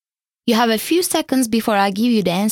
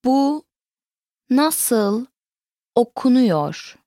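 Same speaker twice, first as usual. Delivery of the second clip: slow, word-by-word teaching model; broken down; much slower than usual. Shown as a demonstration. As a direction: separate each word with a clear pause. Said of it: "Let's break that question down".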